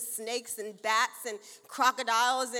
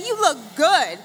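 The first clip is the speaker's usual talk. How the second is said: bright, loud call to the crowd; upbeat call; 3 semitones higher, 16 dB louder than usual. Shown as a demonstration. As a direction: say it out to your neighbor. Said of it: "high five somebody and tell them, say".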